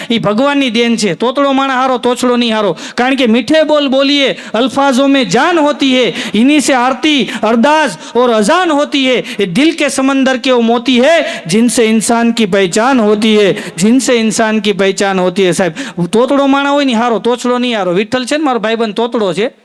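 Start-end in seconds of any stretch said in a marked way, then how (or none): 4.5-15.5 slow, measured poetry recital; recited couplet. Acted. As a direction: savour each line like verse. Recites Hindi shayari.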